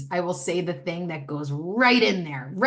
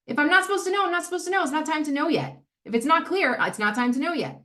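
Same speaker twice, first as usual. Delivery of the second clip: emphatic reasoning; 8 semitones higher, faster than usual. Acted. Exaggerated obvious logic.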